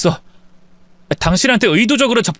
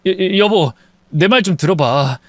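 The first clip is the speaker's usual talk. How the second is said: stammering plea. Acted. 아내에게 무릎 꿇고 비는 남편, 더듬거리며. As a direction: stutter on 여-, 여-, 여보 as he begs. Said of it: "두 손이 발이 되도록 빌며".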